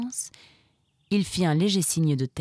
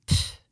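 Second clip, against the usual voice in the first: annoyed sigh. A narrator's reading. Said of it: "soupira le pelé".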